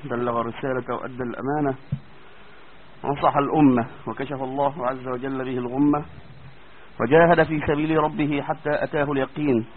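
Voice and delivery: soft, measured sermon-style praise; formal opening prayer. Acted. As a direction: recite the opening blessing calmly. Formal opening praise before lesson.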